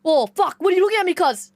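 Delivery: put-on Sydney eshay voice; eshay accent. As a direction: confront them like a Bankstown eshay. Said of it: "everyone speaks like that".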